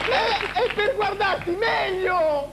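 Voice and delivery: high, slow, sly wolf voice; drawn-out big bad wolf. Wolf answers Red Riding Hood.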